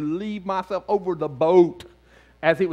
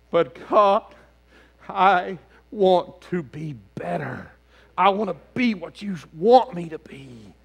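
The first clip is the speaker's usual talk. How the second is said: sincere plea; 4 semitones higher, 5 dB louder, slower than usual. Retold or imitated. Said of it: "Sometimes you just need to go".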